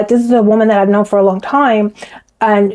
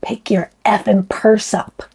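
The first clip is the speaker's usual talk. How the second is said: mock nasty order; 4 dB quieter, slower than usual. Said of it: "he talked in a totally different voice".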